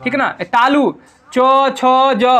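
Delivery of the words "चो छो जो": चो, छो, जो with the tongue on the palate; palatal consonants. Shown as a demonstration. Teacher pointing pupils to the upper palate, palatal articulation. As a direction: press up to the palate for चो, छो, जो. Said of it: "बार बार तालु में देखो".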